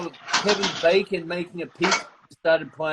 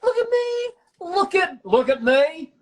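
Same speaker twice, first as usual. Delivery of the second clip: shrill, much higher mock actor begging to be watched; attention-seeking actor; 11 semitones higher than usual. Mocking actors who love charades, high hammed-up show-off voice. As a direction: play the needy actor crying out for attention. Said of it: "It's like".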